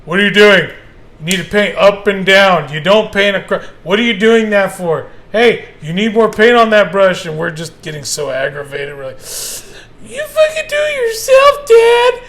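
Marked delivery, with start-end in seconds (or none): 0.1-7.2 loud, nagging dad voice, pitched up; scolding dad. Retold or imitated. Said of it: "We were getting scolded". 10.0-12.2 much higher, louder mock child whine; whiny kid outburst. Sons snapping back at dad.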